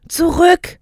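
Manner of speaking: high, sharp yell to get back; urgent acted shout, pitch way up; crowd shout. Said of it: "schrien andere".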